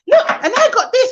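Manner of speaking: put-on light high kid's boast; mock a child bragging; excited child. Mimicking a child boasting on a Zoom call. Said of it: "And they're like".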